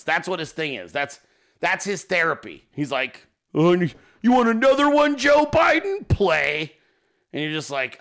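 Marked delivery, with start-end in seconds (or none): 3.5-6.7 high, loud imitation of a taunt; put-on shouted jeer; mock taunting shout. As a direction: holler it high, like a gleeful challenge. Imitating Hogman gleefully taunting with memes.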